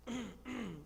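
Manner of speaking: soft, small attention-getting cough; polite throat-clear. Acted. Miriam coming near the princess, hesitant throat-clearing. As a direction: quietly clear the throat before speaking up.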